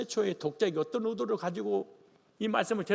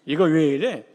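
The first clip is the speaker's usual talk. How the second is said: wife talking back; 2 semitones lower, 7 dB louder than usual. Retold or imitated. Wife's retort to the pastor.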